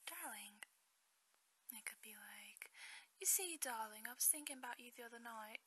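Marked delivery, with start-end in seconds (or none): 3.2-4.1 hammed-up, badly faked British accent; British accent, done badly on purpose; horrible British accent. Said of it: "say it with a British accent". 4.1-5.6 quick, badly faked British accent; playful, amateurish British accent; horrible British accent. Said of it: "I have a horrible British".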